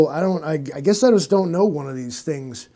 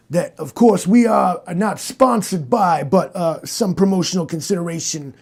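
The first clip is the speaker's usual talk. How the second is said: mock ad read for a soda; sponsor read. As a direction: pitch it like a podcast sponsor spot. Reads a sponsor spot.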